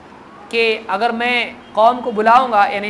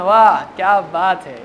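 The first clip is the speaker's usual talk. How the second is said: sarcastic praise; 4 semitones lower, slower than usual. Acted. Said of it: "جیسے تالی بجاتا ہے نا".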